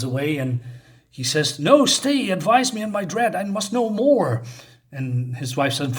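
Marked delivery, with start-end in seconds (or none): 1.6-4.4 much higher, louder, urgent begging; cling to her before she vanishes; desperate plea. Acted. Wotan begs Erda to stay.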